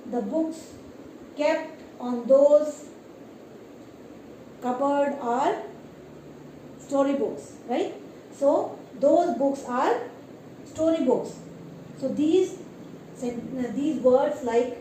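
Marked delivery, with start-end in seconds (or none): 0.1-11.4 walk the class slowly through the example; slow example sentence. Shown as a demonstration. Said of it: "these words you can use in sentences".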